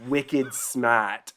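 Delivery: wicked smart with a Boston dropped R; lightly imitated Massachusetts accent. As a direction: imitate a local saying "smaht". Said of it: "literally saying the term".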